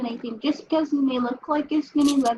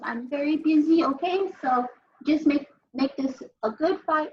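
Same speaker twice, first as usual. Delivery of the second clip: sassy; 2 semitones higher than usual. Acted. Sigrid answers opponent.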